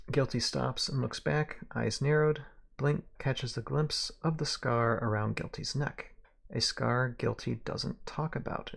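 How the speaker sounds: measured western-tale narrator; story narration. A narrator's reading. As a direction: read it aloud like a western novel. Narration between character lines.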